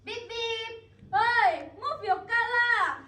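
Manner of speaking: high shouted car horn and yell; traffic yell. Acted. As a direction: shout like a driver stuck in traffic. Honking and yelling in traffic.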